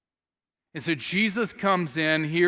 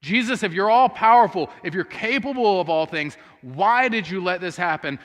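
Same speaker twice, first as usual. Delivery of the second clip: louder, pleading challenge to Jesus; grieving sister confronting Jesus, louder; mild accusing plea; 2 semitones higher, 4 dB louder than usual. Retold or imitated. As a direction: demand an answer, a touch hurt. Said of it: "Mary could have been asking".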